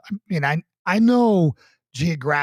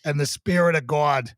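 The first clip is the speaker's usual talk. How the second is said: put-on Boston accent. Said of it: "the Boston special".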